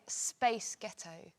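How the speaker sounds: slow, drawn-out American accent; a light American accent. Shown as a demonstration. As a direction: say it slowly the American way. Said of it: "In an American accent".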